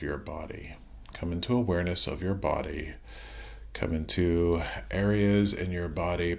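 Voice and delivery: calm meditation voice with long pauses between phrases; guided meditation. Acted. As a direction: ease listeners through releasing tension, leaving room to breathe. Leads a body relaxation meditation.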